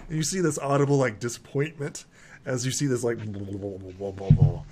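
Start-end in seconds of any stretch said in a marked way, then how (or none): 3.2-4.6 low imitated burble of a potion; bubbling over. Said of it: "like, bubbles over".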